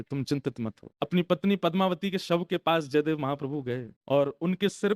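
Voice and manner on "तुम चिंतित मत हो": low, hushed reassurance, lightly acted; calm them down in a lower voice; gentle reassurance. Saint reassures the worried queen.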